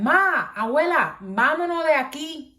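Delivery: mock yell to get everyone out; retold scream. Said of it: "I'm screaming".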